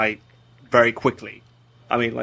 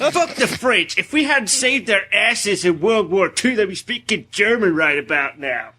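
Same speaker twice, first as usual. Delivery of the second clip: hammed-up American accent, higher at first and slowing; mock American accent; 5 semitones higher than usual. Brit mocks Americans bashing the French, in American accent. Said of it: "I'm trying to do a general American accent".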